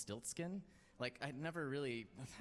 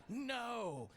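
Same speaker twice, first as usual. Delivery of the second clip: naive; 13 semitones higher, 3 dB louder than usual. Retold or imitated. Naive answer in retold chat.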